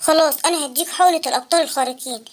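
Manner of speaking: put-on wise old inventor voice. Uncle Abqarino asking the sad boy why, low. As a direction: ask like a kindly old uncle. Abqarino offers hero injection.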